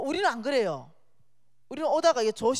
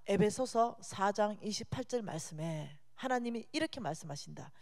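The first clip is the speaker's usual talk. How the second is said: ordinary delivery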